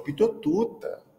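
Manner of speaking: high, slow lisped squeak; lisping child squeak. Retold or imitated. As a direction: squeak it like a tongue-tied kid. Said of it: "Sofia tinha língua presa". (a menina de língua presa responde com voz bem aguda e lenta)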